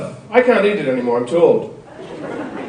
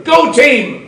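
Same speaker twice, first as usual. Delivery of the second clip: mock sideline cheer; 7 semitones higher than usual. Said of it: "shouting at their children".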